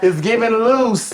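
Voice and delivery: slow words squeezed out through laughter; barely getting it out between laughs; laughing. Real, not acted. Cracking up at his own joke among friends.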